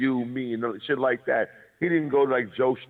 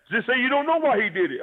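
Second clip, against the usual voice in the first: high, pushy mock plea; pressing him to just say it; frantic pleading dude; 13 semitones higher than usual. Retelling the guest pushing him, high frantic plea. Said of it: "got out of his body".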